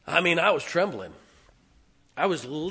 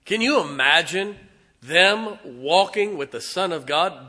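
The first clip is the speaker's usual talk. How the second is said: fired-up question; 5 semitones higher, 7 dB louder than usual. Acted. Preacher rousing his congregation, excited. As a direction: lift the congregation with it.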